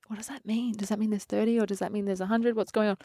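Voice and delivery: anxious hushed quote. Retold or imitated. Retold nervous backstage worry.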